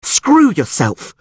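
high, slow, enraged scream; angry scream. A narrator's reading. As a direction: hurl it at him. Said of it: "screamed Yennefer".

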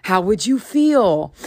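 put-on patiently explaining as if to a small child; retold conscious-parenting talk, walking him through it; gentle-parenting lecture. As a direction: spell it out like a parent to a six-year-old. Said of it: "like I was speaking to my six-year-old".

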